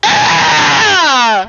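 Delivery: long, loud "ah" cry; horrified yell. Pretend. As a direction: cry out at what you see. Reacting to the video.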